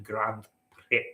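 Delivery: "Prix" said as "pricks"; common mispronunciation. Acted. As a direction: finish "Grand Prix" with a hard, hissed "ks". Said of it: "We say Grand Prix".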